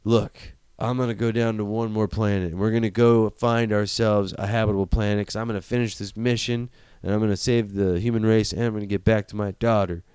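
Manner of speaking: lightly put-on Southern accent; a touch of super-Southern leading man; Matthew McConaughey. Pilot vowing to get back to his daughter, in a mock Southern accent. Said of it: "super Southern".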